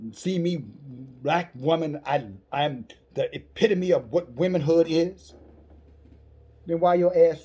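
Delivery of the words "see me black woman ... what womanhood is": slow, haughty mock voice of a proud woman. Preacher mocking unrighteous sisters, slow haughty mock voice. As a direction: ham up her self-importance, slowly.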